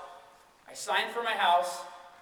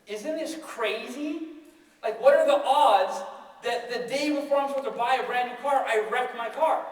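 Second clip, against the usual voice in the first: higher, slow mock delight; happy about it; 4 semitones higher than usual. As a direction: marvel slowly at the odds, pitched up. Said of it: "like, happy about it".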